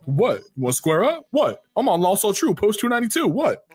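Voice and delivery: rising challenge, chin up and mocking; confrontational taunt. Taunting the rival who looks at you, mock aggressive.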